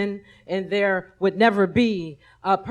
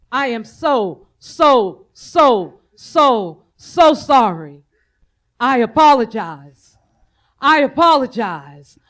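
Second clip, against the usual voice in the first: pleading apology; 4 dB louder than usual. Real, not acted. Apology building in emotion.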